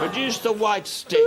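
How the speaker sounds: repeated through real laughter; can't get the words out without laughing; laughing as he says it again. Real, not acted.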